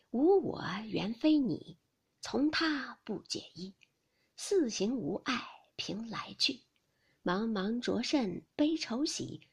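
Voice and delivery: slow, measured poem reading; stately, unhurried recital of a lyric; verse recitation. A narrator's reading. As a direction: recite the verse slowly, drawing out each line. Reads a verse aloud.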